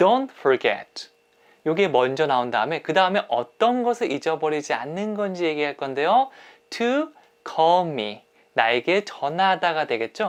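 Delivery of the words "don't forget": heavy punched stress on the first word, don't. Showing english sentence stress on a short phrase: strong stress on don't. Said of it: "아주 강하게 얘기한다면 Don't forget. 맨 앞에 강세를 주시면 돼요".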